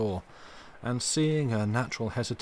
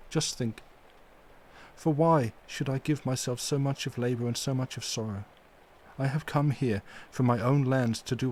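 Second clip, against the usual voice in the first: full of pity; 3 semitones higher than usual. Acted. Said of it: "with an accent full of pity".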